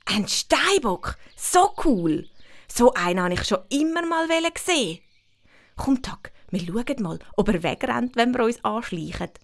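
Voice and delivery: put-on a thrilled kid who wants to sneak closer; excited girl voice. Winnie voiced in story.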